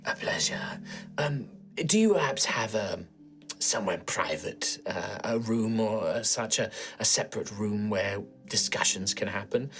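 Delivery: soft, low, secretive request; a hint of a whisper, asking for privacy; low hushed voice. Sister Malady asks Maeve for a private room, hushed.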